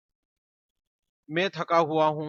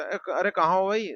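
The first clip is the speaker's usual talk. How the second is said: high, louder call across the house; 5 semitones higher, 5 dB louder than usual. Acted. Someone at home calling out looking for Raju. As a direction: call out to find him.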